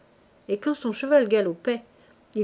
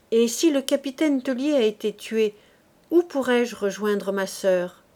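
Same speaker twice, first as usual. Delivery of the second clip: free, easy voice. Acted. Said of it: "d'une voix libre".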